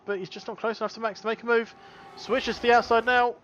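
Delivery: lively live race call; motorsport commentator. Real, not acted.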